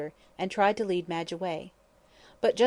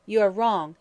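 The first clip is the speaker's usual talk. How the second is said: sharp; 7 dB louder than usual. Acted. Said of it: "turning round sharply".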